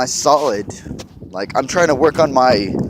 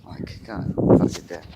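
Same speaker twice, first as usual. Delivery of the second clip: sarcastic; 8 semitones lower, 4 dB quieter, slower than usual. Real, not acted. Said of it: "in the most sarcastic fucking way".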